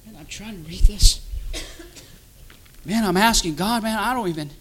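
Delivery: a worn-out, broke believer complaining to God; weary churchgoer. Acted. Voicing a discouraged, broke churchgoer.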